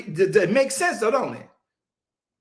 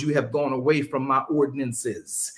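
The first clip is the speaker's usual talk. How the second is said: unhurried scripture reading, each word given room; read slower; 5 semitones lower than usual. Shown as a demonstration. Preacher slowing the reading so the congregation hears it. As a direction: take it slower this time. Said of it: "Slow down. Don't read this fast".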